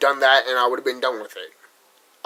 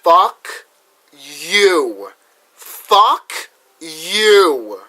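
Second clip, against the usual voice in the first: furious retort; 3 semitones higher, 5 dB louder, much slower than usual. Retold or imitated. Vlogger retelling cursing at the school that dismissed him, loud defiant retort. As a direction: spit it back at them loudly. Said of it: "And I'm like".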